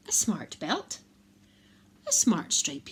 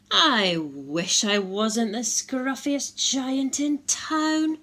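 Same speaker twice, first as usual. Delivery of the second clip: sadly; 4 semitones higher, 3 dB louder, slower than usual. Acted. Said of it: "he said sadly".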